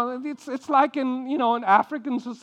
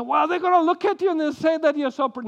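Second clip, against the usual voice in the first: higher, fast, fretful rush; drama queen; 9 semitones higher, 5 dB louder, faster than usual. Retold or imitated. Abraham fretting to his wife, a fast high drama-queen rush. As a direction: gabble it out anxiously. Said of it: "he becomes a drama queen. He said".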